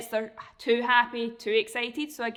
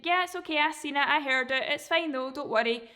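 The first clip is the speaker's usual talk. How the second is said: reassuring dog owner; 3 semitones higher than usual. Pretend. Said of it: "the marker word is basically you saying".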